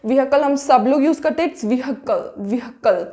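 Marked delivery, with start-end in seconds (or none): 1.5-3.0 vehicle said as "vee-hi-kal" with the h sounded; correct pronunciation. Shown as a demonstration. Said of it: "इस तरीके से हमें pronounce करना है".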